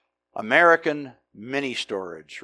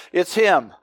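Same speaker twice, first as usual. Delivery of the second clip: "It's him" said through a light laugh; a laugh breaking into "him"; 3 semitones higher, 3 dB louder than usual. Retold or imitated. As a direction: chuckle the words "It's him". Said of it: "And Sidney went".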